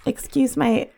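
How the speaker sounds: rough, hoarse voice from a cold. Real, not acted. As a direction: talk with a hoarse, sore throat. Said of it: "hoarse voice".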